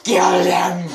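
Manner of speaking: loud cheer, egging on; excited shout. Real, not acted. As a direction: yell it at the screen. Player cheering on the fight.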